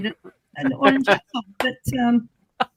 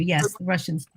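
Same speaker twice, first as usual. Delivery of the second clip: laughing; 7 semitones lower, 8 dB quieter, faster than usual. Real, not acted. Joking agreement.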